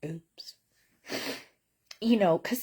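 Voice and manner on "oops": much softer, sheepish little oops. Retold or imitated. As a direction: mumble it like you got caught. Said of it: "And I was like".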